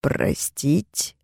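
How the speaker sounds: quiet contemptuous hiss, rising; cold hissing scorn; hissed with contempt. Acted. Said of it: "прошипел с презрением".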